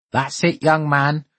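a hint of a croaky old neighbour; croaking old man. A narrator's reading. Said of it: "croaked Paul's elderly neighbour".

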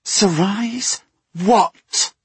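high, slow, mounting fury; furious demand. Acted. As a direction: demand it with rising anger. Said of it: "demanded Minya, her fury mounting".

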